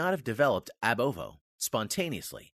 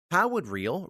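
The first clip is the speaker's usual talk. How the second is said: real punched higher and louder; stress on real; 7 semitones higher, 5 dB louder, slower than usual. Real, not acted. Lecturer singling out the word real for his audience, stressed. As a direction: lean hard on the word real. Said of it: "let me emphasize the word real here".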